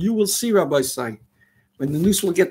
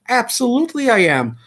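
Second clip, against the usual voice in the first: frustrated; 4 semitones higher than usual. Real, not acted. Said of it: "I'm a little frustrated".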